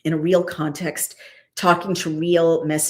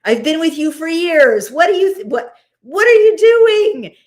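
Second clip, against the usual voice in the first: high-pitched, outraged scolding of a grown charge; scolding nanny donkey; 9 semitones higher, 4 dB louder than usual. Acted. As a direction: play an exasperated donkey berating its rider. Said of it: "she's his nanny and he's grown up and she's scolding".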